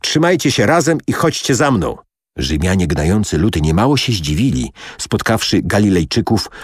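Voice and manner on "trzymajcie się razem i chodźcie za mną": raised-pitch rallying call. A narrator's reading. Ben Hur leads his men onward, calling out. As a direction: lift the pitch to lead the men on, volume held. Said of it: "zawołał Ben Hur".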